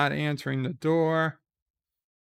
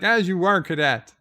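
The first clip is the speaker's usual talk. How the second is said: higher and louder curt order to a cadet; stern captain; 4 semitones higher, 6 dB louder than usual. Retold or imitated. Sisko silencing Nog, louder stern order. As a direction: snap it like a captain cutting off a cadet. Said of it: "And he's like".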